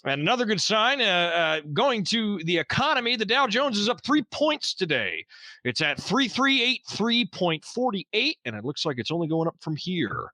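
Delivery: bright on-air radio read; lightly voiced radio host. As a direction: sell the news like a station host. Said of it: "That was a great radio voice".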